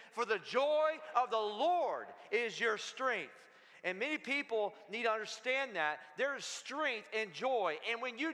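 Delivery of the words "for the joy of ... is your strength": slow, emphatic declaration with JOY and LORD stretched out; like you mean it. Shown as a demonstration. Preacher leading the church in reciting a verse, like they mean it. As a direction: proclaim it slowly, with full conviction. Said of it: "Now say it like you mean it".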